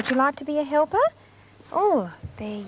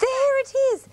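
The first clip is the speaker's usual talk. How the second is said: high booming lion king cry; booming warrior king; 13 semitones higher, 3 dB louder than usual. Acted. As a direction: roar it out like a proud king. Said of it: "roared the king".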